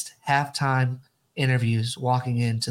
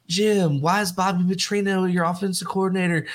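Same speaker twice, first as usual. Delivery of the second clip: higher, insistent reporter voices badgering; mock pestering reporters; 5 semitones higher than usual. Podcast host mocking reporters grilling a coach, higher and insistent. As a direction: pepper him with questions like a nagging press pack.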